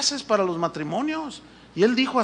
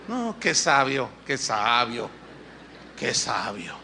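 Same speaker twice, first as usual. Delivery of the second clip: sarcastic praise; 9 semitones lower, 3 dB quieter, slower than usual. Real, not acted. Mocking the husband's reply.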